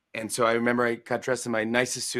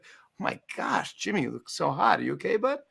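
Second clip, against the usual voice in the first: airy, higher mock-caring voice; imitating the First Lady; 7 semitones higher than usual. First Lady fussing over sweaty Jimmy, higher concerned voice. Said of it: "She's like".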